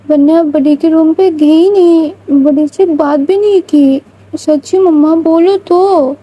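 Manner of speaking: put-on a worried little girl coaxing her mother. Child Vania pleads again. (ننھی بچی کی التجا بھری آواز)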